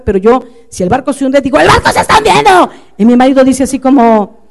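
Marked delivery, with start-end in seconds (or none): 1.6-2.7 grito agudo de pánico actuado; da la alarma a voces, muy agudo; alarma explosiva. Retold or imitated. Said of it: "yo era más explosiva". (grito explosivo y alarmado)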